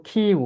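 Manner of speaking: "কিউ" with a puff on the k; aspirated Q. Shown as a demonstration. Teacher answering own question, aspirated Q. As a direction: push breath into the start of "কিউ". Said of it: "কিউ কে আমরা কি বলবো?".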